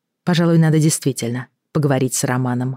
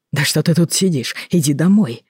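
impatient. Acted. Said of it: "нетерпеливо произнёс Роман".

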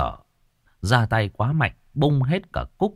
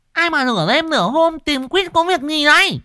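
shouting out toward the gate, much higher; calling out; 5 dB louder than usual. Acted. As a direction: call out loudly from inside the house. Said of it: "Nó bắt đầu lên tiếng nói vọng ra".

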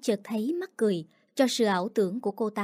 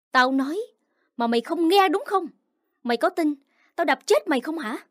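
raised, higher angry threat; threatening snarl; 5 semitones higher than usual. Acted. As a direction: threaten her, voice rising. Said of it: "nghe cô ta dọa".

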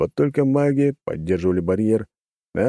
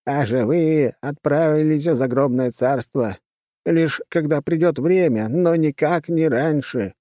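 high-pitched character voice; 7 semitones higher, slower than usual. Acted.

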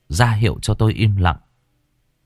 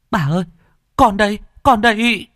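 calling back; 13 semitones higher than usual. A narrator's reading. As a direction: answer across the house, here I am. Child answering grandmother's call.

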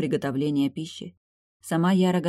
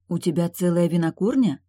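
surprised; 2 semitones higher, 4 dB louder than usual. Acted. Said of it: "удивилась Яра".

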